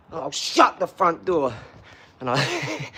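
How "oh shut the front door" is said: slow, drawn-out mock outburst; mock exasperation. Acting out failing to get up, mock exasperated exclamation. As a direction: stretch it out in hammed-up exasperation. End of acted struggle to get up.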